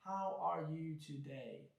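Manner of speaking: slow question on one single tone; monotone. Shown as a demonstration. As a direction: ask it slowly, without any change of pitch. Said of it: "It's a single tone".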